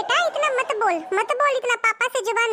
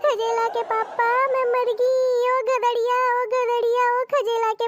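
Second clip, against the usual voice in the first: pretend plaintive calling; 3 semitones higher, slower than usual. Wife calls husband, pretending pain.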